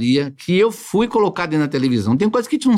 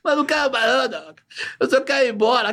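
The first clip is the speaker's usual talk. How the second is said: put-on higher, whiny pleading boy; 8 semitones higher than usual. The boy pleading with dona Olga to leave, whiny. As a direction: beg like a scared teenager.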